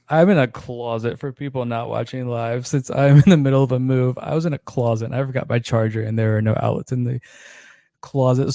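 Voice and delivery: slightly winded while talking; catching breath between words. Real, not acted. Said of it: "So now I'm out of breath".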